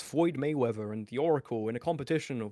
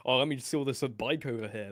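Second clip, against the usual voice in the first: Eric July impression. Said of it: "that's the Eric July impression".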